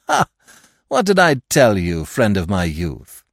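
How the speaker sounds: mock friendly triumph; triumphant gloat. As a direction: crow over the detective. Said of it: "Lupin triumphant".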